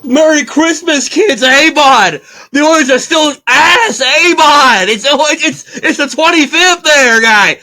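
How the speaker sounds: put-on over-the-top Alberta accent, calling out to the kids. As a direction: play a cheery Albertan hockey fan in a mock Alberta accent. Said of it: "That's my best Alberta accent".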